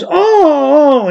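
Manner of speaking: put-on Italian American accent. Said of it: "the guy at the end always goes".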